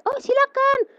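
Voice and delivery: high-pitched imitated consent; obliging. Boss letting her pray, obliging.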